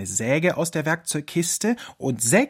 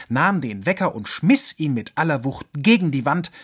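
ordinary delivery

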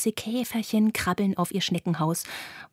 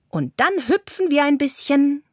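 a little higher, called to the group; calling out; 6 semitones higher than usual. A narrator's reading. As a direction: lightly call the next game to the kids. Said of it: "ruft Carla". (leicht erhoben rufend)

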